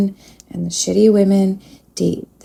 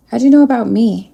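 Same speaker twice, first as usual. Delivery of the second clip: surprised question; 3 semitones higher, 6 dB louder, faster than usual. Retold or imitated. Relays surprised spirit question.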